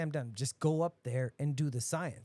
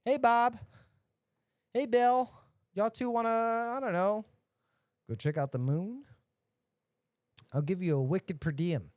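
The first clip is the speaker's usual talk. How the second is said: boss calling out; 5 semitones higher, 5 dB louder than usual. Retold or imitated.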